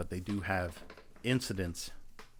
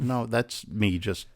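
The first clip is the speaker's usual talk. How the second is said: mock mean; 7 dB louder than usual. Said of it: "being a little bit meaner".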